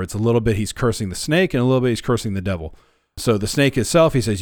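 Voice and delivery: ordinary delivery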